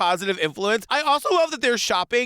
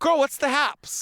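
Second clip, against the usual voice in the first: put-on slow, sassy "Girl, what's the haps"; sassy catchphrase; 3 semitones higher, slower than usual. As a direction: tease her with it. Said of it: "trying to make that a thing".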